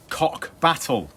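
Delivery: slow, punched dramatic read; slow emphatic. Shown as a demonstration. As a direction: land it slowly for effect. Dramatic headline reading.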